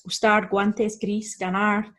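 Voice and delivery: gustar, guantes, gris, ganar with G as in "go"; Spanish hard G starting gustar, guantes, gris, ganar. Shown as a demonstration. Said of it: "it can be hard when followed by U".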